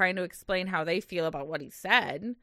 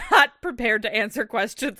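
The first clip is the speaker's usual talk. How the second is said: laughing; 2 semitones higher, 4 dB louder than usual. Real, not acted. Laughing at the date.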